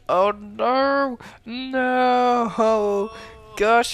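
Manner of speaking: high, loud shocked "no"; excited dismay. Real, not acted. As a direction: react like a caster watching disaster. Caster reacts to lost engagement.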